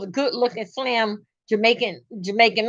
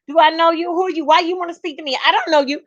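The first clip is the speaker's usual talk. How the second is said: mock-cocky rapid questions; sassy, cocky retort; 3 semitones higher, much faster than usual. Wife mimicking cocky Jamaicans who won't greet you, sassy. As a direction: mimic someone too proud to say hi back. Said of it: "They so sassy mouth".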